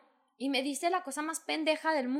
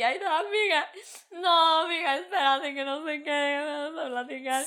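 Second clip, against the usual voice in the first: mimicking the caring friend; 3 semitones higher than usual. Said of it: "yo también estaba llorando".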